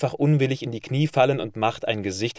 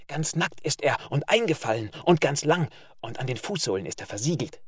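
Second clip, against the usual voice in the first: suppressed giggle; 4 semitones higher than usual. A narrator's reading. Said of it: "ein Lachen ist innen in ihm".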